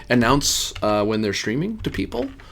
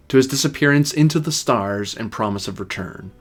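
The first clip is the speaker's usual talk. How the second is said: story narration. Acted. GM opens the tale.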